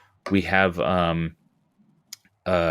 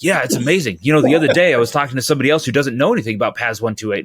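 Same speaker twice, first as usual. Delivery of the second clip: fast, lifted and louder gushing; eager British locator; 4 semitones higher, 4 dB louder, much faster than usual. Retold or imitated. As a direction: rattle it off like a fan. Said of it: "I'm not gonna try to do a British accent".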